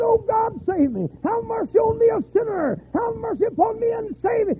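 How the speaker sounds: high, loud cry for mercy; dying man's prayer. Retold or imitated. Dying father begging God, loud high plea. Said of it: "He said".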